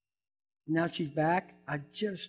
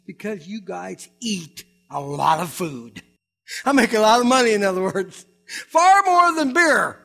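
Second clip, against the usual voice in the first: a lightly voiced bar owner, slow and louder at the end; imitating Willie; 9 dB louder than usual. Willie explaining to the pastor why he invites him, lightly voiced. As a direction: lightly play the owner admitting it's about money. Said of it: "And he says".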